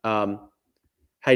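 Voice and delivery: normal talking voice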